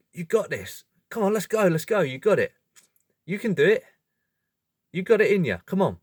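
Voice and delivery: just tell your buddy he's got this; toned-down encouragement. Retold or imitated. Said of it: "maybe he just says".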